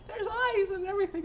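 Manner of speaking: lightly voiced astonished lady; amazed quote. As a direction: retell her astonishment, squeaky with laughter. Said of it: "And she goes".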